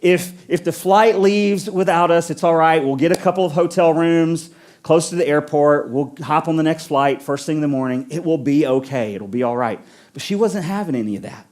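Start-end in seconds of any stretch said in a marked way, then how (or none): 0.0-9.8 soothing, settling down as it goes; reassuring. Retold or imitated. Traveller calming an anxious mom about the flight, reassuring. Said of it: "I try to reassure her".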